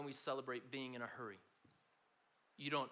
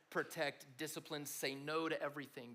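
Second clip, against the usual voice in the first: normal talking voice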